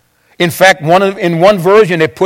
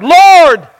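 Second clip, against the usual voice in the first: mock cry for help; 7 semitones higher, much slower than usual. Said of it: "he cried out".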